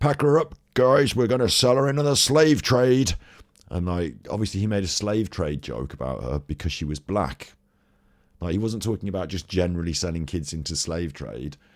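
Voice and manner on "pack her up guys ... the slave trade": loud, high-pitched villainous voice. Retelling how someone voiced a game's bad sheriff: bad sheriff voice. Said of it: "in the bad sheriff's voice".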